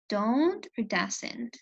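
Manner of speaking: don't and doesn't each said slowly and deliberately; slow emphasis. Shown as a demonstration. Teacher spells out the only forms students must watch. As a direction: hold both forms up slowly for the class. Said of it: "teacher stresses the key forms".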